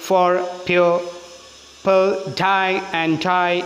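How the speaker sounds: "pure" and each "die" drawn out slowly, "for", "pearl", "and" left weak; stress on pure, die. Shown as a demonstration. Teacher shows students which syllables take stress, slow stressed "pure" and "die". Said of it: "stress കൊടുത്തു".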